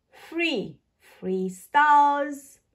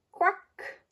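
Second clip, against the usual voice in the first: higher, mock duck quack; 7 semitones higher than usual. Reading to children, a light duck quack. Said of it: "Animal sounds".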